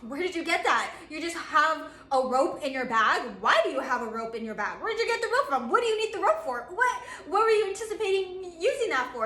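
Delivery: rescued climber amazed at the rope, rising surprise; amazed questioning. Retold or imitated. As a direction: pepper them with stunned questions. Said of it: "And they're just like".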